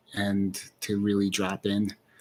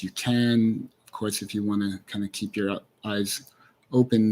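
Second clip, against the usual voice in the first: unhurried guiding voice with long pauses; guided meditation. Acted. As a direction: lead listeners gently inward, leaving space between phrases.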